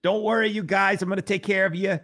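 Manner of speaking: a barely shifted, lightly voiced old politician promising care; a weak stab at a reassuring campaign voice; bad Bernie Sanders impression. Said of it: "terrible impersonation".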